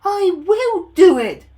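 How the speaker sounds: loud alternating strained puffs; puffing engines. Acted. Both engines puffing up the hill together. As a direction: trade the lines in rhythm, straining. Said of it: "they puffed together".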